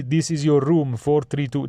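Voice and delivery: badly faked Italian hotel-staff English; Italian English accent. Shown as a demonstration. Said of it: "they speak kind of like this".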